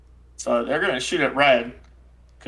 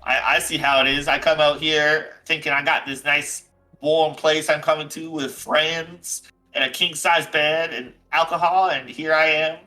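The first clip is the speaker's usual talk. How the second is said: lightly acted offended character; understated huffy complaint; Jack O'Toole. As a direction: air a grievance to a friend, feelings bruised. Game master voices Jack O'Toole.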